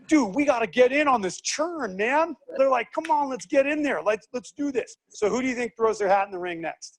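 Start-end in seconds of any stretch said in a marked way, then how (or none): 0.1-5.0 higher, pumped bro tone; mock eager. Teacher voicing eager car companies, mock excited. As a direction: hype up the crew. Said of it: "car companies are like".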